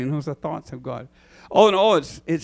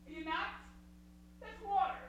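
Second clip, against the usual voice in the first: incredulous onlooker; 14 semitones higher, 12 dB quieter, faster than usual. Acted. Doubting onlooker mocking Peter.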